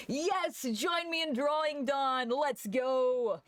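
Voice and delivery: high, loud rallying shout; rally your friend with glee; cheering a viewer on to draw, excited and loud. Real, not acted.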